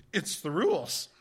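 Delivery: loud, flat-out final word; firm refusal. Retold or imitated. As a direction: shut the argument down. Clerk's retold final answer.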